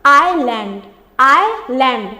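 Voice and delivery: "आइलैंड" in two clear parts, no s sound; silent S. Shown as a demonstration. Teacher showing learners the pronunciation, "आइलैंड" with silent S. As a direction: say "आइलैंड" as eye-land, falling at the end. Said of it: "देखिए इसका pronunciation क्या होता है?".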